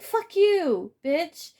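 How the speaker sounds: high, loud mock outburst; hammed-up yell of an angry ex. The spy told to get out, mock angry. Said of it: "and they get mad".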